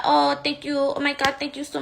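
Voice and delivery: lightly imitating a Tejano singer's accent with breathless thanks; mock singer voice. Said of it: "she's talking like a singer".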